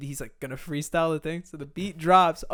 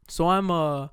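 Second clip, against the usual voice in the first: A musician. Retold or imitated. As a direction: lightly imitate a laid-back musician, hesitant. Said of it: "He says it just like that".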